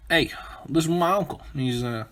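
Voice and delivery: lightly put-on southern accent; mock Southern guy. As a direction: introduce your kin with a hint of Southern. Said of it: "it's a guy from the South".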